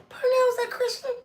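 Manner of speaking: high, startled phone question; shocked question. Retold or imitated. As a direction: ask it like you can't believe it. Calling friend, shocked at TV.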